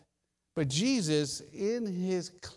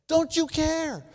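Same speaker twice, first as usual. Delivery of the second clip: higher and louder, a pleading cry to God; anguished cry; 10 semitones higher, 6 dB louder, slower than usual. Acted. Worshipper crying out to God in anguish. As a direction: throw the question up to heaven. Climax of the voiced pleas.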